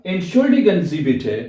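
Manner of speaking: slow, deliberate German model phrase; slow careful model. Shown as a demonstration. Teacher showing students the formal phrase, slow and careful. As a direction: lay out each syllable slowly. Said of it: "इसको Dutch में कहेंगे आप".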